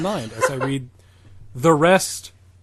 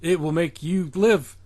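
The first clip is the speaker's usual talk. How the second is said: mock villain; 3 semitones higher than usual. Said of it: "It's like".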